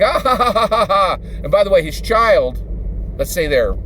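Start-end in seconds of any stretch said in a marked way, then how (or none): 0.0-1.2 mock child's high, gleeful cackle; gleeful laugh. Grown child laughing with glee in the scooper. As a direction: laugh like a kid whirled round in a digger scoop. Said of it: "the child just laughs with glee".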